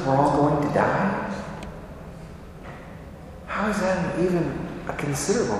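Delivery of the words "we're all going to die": mock the overreaction with a questioning lift; incredulous. Shown as a demonstration. Preacher questioning the disciples' panic, incredulous rising echo. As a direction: echo it back in disbelief, rising at the end. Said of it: "And our first response is".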